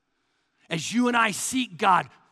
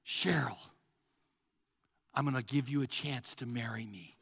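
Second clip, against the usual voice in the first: low, quiet, offhand proposal; soft and underplayed, no passion; passionless, condescending offer; 9 semitones lower, 9 dB quieter than usual. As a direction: offer marriage like a casual favor. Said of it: "I didn't say".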